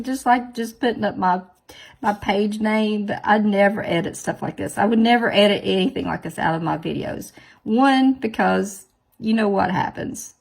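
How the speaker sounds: 1 emphatic. Real, not acted. Emphatic rant to viewers.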